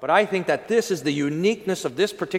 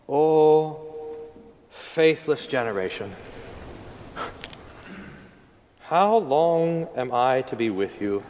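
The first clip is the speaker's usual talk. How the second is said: exasperated Jesus; 4 semitones lower, slower than usual. Acted. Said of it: "as an exasperated moment".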